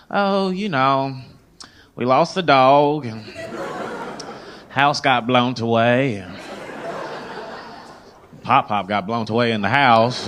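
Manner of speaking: lightly voiced, slow oversharing Southerner; retold Southern shopper. Shopper answering a casual greeting, slow folksy oversharing. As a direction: drag out bad news as small talk. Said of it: "they were like".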